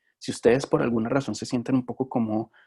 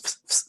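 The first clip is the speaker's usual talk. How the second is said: quick hissed fis, fis; sound sequence; 4 dB quieter than usual. Shown as a demonstration. Teacher explaining how sounds became a word, hissed squirts. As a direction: imitate two short squirts of spray. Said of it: "esa secuencia de sonidos".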